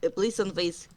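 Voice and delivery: loud, earnest in-character excuse; Sunface in character. Acted. Cat warrior recalling his leader's orders, loud and proud. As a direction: defend himself proudly, loud.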